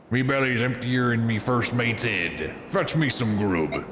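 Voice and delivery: slow, hammy pirate growl. Acted. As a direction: talk like a hungry old pirate. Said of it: "I'm gonna try my best at a pirate voice".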